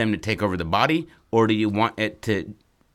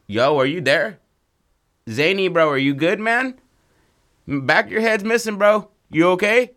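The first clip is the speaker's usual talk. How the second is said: high, loud worried calling; rising, much higher "are you good bro" panic; alarmed checking in; 9 semitones higher, 4 dB louder than usual. Acted. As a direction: anxiously shout to a friend who may be hurt. Friends check on wrapped-up guy.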